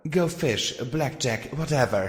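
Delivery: bored teacher reeling off names; tossed away, can't be bothered; rote boredom. Acted. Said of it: "talking with the rote boredom".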